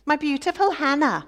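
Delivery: high, fast sneering imitation of a doting husband; mocking the husband. Rival wife mocking husband's doting words, sneering imitation. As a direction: parrot his sweet talk with scorn. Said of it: "Listen to him".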